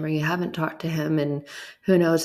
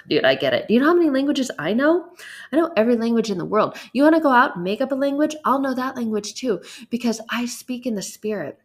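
higher, fast, breezy voice of God, a bit amused; playful God voice; 4 semitones higher than usual. Retold or imitated. Preacher voicing God reassuring the congregation, high and fast. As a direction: play God shrugging off spelling worries, quick and high. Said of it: "He was like".

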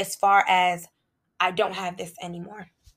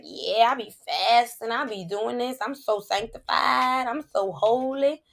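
mock a holier-than-thou faster; mock self-righteous; 3 semitones higher than usual. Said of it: "for you to be like".

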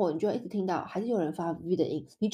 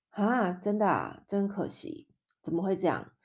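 sighing pity; 3 dB quieter than usual. Shown as a demonstration. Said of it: "当你觉得很叹息的时候".

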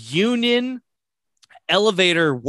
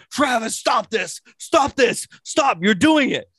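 high, insistent mock panic; retold freak-out; 6 semitones higher than usual. Friend imitating Hardy accusing Travis on the ride, mock panic. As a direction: plead in a raised, panicky imitation. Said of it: "He's like".

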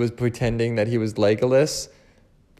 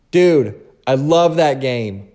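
excited; 5 dB louder, slower than usual. Real, not acted. Excited about GameCube.

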